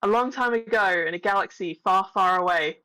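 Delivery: measured storybook opening; lightly formal narrator read; story opening narration. A narrator's reading. Reads the opening story crawl.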